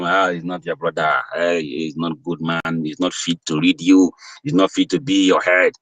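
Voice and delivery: imitating people who judge their leader, dismissive sneer; mocking critics. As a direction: sneer like a petty gossip.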